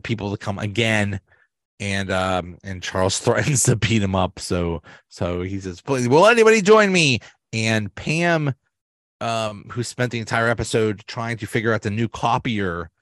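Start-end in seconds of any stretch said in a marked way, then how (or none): 5.8-7.2 high, pleading plea; pleading Michael. Retold or imitated. Michael begs the office workers to follow him, high pleading. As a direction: beg the room to join, pitched up.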